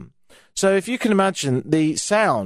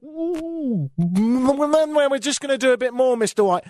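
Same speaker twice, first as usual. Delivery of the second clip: much higher, singsong medical cooing; cheery nurse; 9 semitones higher than usual. Retold or imitated. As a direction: coo it like a chirpy nurse. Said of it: "it suddenly went".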